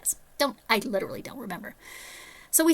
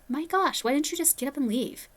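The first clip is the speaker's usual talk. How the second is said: higher-pitched mock astonishment; shocked friends; 6 semitones higher than usual. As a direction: imitate incredulous friends, pitched up. Friends' shocked reaction, retold.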